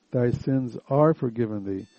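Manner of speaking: "are" firmly marked in "Thy sins are forgiven thee"; stress on ARE. Shown as a demonstration. Preacher correcting "shall be" to present tense, stress on "are". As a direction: lean on the word "are". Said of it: "with an emphasis".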